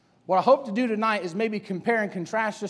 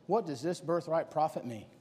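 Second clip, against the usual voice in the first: quiet self-talk; 5 semitones lower, 10 dB quieter than usual. Acted. Esau muttering to himself.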